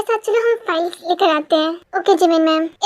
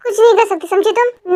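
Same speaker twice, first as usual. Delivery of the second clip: mocking retort. Argument with employee.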